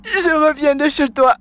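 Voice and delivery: crying complaint. Acted. Girlfriend crying to the mother about her son, tearful. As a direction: sob out what happened.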